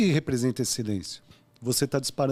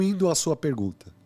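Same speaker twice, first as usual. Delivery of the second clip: usual speaking voice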